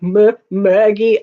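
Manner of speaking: imitating a dying man. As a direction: stammer out the name slowly, mock-dying. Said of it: "he was like".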